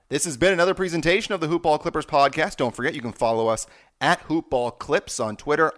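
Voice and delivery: brisk, upbeat host sign-off read; podcast outro. Acted. Host signing off to his listeners, upbeat announcer read. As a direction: wrap up the show like a radio announcer.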